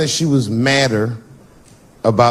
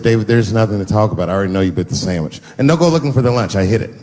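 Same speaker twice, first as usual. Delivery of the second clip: wife's voice; 4 semitones lower, faster than usual. Acted. Wife cold to husband.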